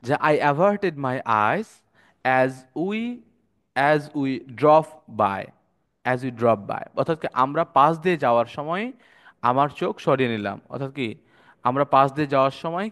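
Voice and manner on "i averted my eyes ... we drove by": I averted my eyes read very slowly; slow, careful reading of the example sentence. Shown as a demonstration. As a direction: draw out the English example word by word. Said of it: "একটা example দেওয়া আছে".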